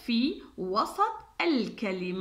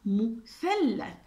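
slow repeat; much slower than usual. Shown as a demonstration. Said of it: "كلمة مثلث".

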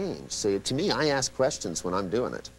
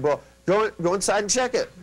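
exasperated retold urging; 10 semitones higher, 4 dB louder than usual. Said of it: "they said".

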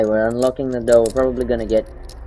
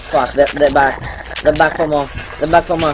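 alarmed; 3 semitones higher, 4 dB louder than usual. Real, not acted. Enemies return, alarmed.

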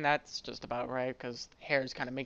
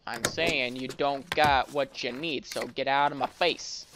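put-on Western accent. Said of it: "to a Western accent".

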